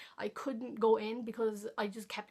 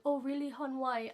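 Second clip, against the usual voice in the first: higher, gentle concerned teacher; caring teacher; 3 semitones higher than usual. Retold or imitated. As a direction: ask kindly, like a worried teacher. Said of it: "And she was like".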